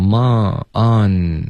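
"mon, on" slowly, finishing on a front n; tongue-tip ending. Shown as a demonstration. Teacher drilling the final sound, front nasal. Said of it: "还是要动舌尖".

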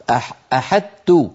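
"أحدت" with the ط fully merged, no emphasis left; demonstrating the wrong full assimilation in "أحدت"; wrong full merging. Shown as a demonstration. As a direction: say "أحدت" as a plain د and ت. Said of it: "وهذا لا يفعله أحد".

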